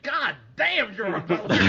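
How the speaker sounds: high, loud, laughing awe; impressed exclamation. Retold or imitated. Viewer cheering a brutal hero line, laughing awe. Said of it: "I was like".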